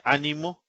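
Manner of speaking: "ánimo" stressed on the Á; stress on first syllable. Shown as a demonstration. Teacher showing how accent position changes meaning, "ánimo" stressed on Á. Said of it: "por la posición del acento podemos distinguir".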